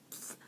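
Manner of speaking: short blown pfft; imitated burst of powder; puff sound. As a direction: mimic the brush puffing. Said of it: "and I went".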